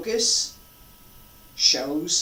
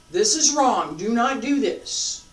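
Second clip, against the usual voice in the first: firm warning; 4 semitones higher, 5 dB louder than usual. Shown as a demonstration. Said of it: "demonstrating wrong technique".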